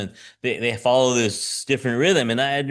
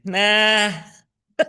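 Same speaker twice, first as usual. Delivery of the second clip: casual laughing refusal; 7 semitones higher, faster than usual. Retold or imitated. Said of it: "And then they say".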